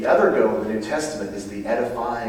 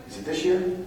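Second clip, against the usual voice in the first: startled question; 9 semitones higher than usual. Real, not acted. Unsure about his schedule.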